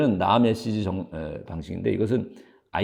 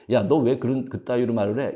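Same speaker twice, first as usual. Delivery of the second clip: a demo flare of temper, a bit louder; mock angry rebuke; 3 semitones higher, 4 dB louder than usual. Shown as a demonstration. Lecturer acts out angry you-message to a friend, mock angry. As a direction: snap at a friend in pretend anger. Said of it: "이렇게 화를 내는 것보다는".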